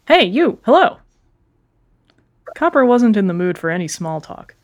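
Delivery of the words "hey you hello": high, louder eager otter voice; chirpy nervous shopkeeper; sea otter voice. Acted. Otter character greets.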